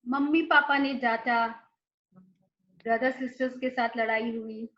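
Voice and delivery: slow, tender self-love affirmations. Acted. Coach models affirmations for the mirror, tender and unhurried.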